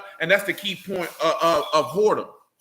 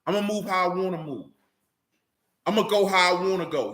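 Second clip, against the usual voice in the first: mock defiant voice; 2 semitones higher than usual.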